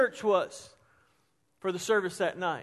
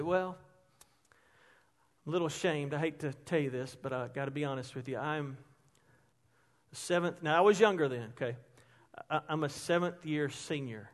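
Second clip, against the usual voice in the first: softer, lower, a hushed fake confession; mock ashamed confession; 6 semitones lower, 6 dB quieter than usual. Pretending to students he is a seventh year senior, hushed and sheepish. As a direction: play the embarrassed old student. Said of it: "I would start getting emotional".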